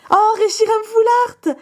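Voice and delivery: high, slow squeal of joy; delighted squeal. Real, not acted. Squealing over a Reshiram Full Art gift card. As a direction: cry out with delight at the pull.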